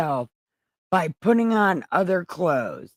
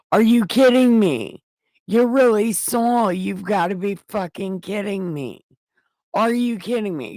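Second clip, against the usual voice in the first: high, loud disbelieving cry; shocked outcry; 4 semitones higher than usual. Acted. Medium realising her visitor is Saul, high shocked disbelief. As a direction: gasp it out, higher, in disbelief. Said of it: "she cried out loud".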